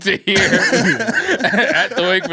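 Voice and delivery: high, drawn-out words broken by laughter; laughing while talking. Real, not acted. Joking to friends about the saddest wake song, laughing through it. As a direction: crack up mid-sentence.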